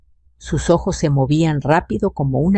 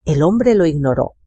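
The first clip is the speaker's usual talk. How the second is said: ordinary delivery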